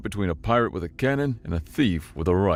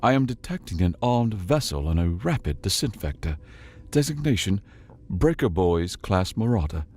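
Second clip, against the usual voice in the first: calm AI voice. Acted. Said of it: "calm as ever inside his head".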